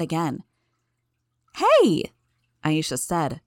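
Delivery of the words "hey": loud, high protesting shout; sudden high outcry; indignant yelp. A narrator's reading. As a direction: yelp out in protest at being hit. Imp protests being cuffed.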